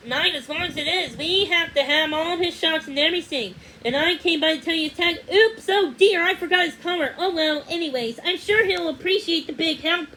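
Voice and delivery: high, loud, rushed woman's voice; hurried lady. A narrator's reading. Lady hurrying to drop off the puppy, rushed and high. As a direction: gush it all out in a flustered rush. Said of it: "The lady started talking fast".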